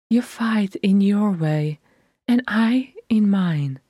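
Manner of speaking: a hushed, breathy whisper; a whisper meant only for her sister. Acted. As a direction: confide it without voice.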